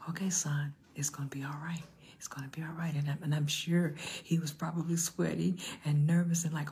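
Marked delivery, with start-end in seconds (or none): 0.1-2.9 lower, softened fatherly reassurance; Joseph. Acted. Imagined father reassuring his son during the birth, soothing. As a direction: quietly comfort a son. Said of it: "I can just hear Joseph".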